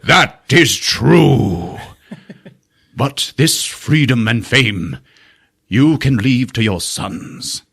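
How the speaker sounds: slow, grand stage-actor delivery, every word drawn out; Shakespearean overacting. Wise old wizard hamming it up to the prisoners, slow and grand. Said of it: "Shakespearean overacting".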